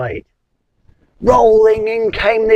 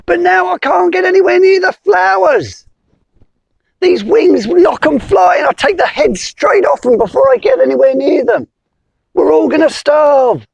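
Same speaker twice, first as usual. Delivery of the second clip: frantic bumblebee; 8 semitones higher than usual. Acted. Bee pleading with the wizard, high and panicky. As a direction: squeak it out like a desperate bee.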